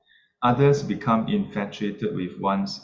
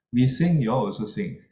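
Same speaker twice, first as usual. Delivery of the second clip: mocking lay critic; 3 semitones higher, 4 dB louder than usual. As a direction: tease the monks for singing too. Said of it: "lay people may then criticize".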